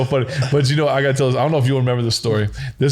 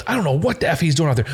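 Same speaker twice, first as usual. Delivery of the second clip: higher-pitched grumble in imitation; exasperated coach; 4 semitones higher than usual. Coach griping before he hits the headset button, exasperated. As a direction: imitate a coach griping about his quarterback. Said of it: "this is exactly how it'd go".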